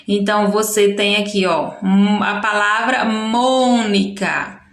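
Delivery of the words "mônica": Mônica with a long, stressed Mô; stress on first syllable. Shown as a demonstration. Teacher showing pupils the strongest syllable, stress on the Mô of Mônica. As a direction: draw out the opening syllable of Mônica. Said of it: "a sílaba mais forte é Mo".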